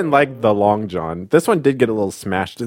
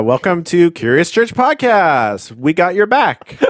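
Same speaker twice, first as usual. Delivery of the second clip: slow announcer intro; 5 semitones higher, slower than usual. Shown as a demonstration. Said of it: "Okay, here we go".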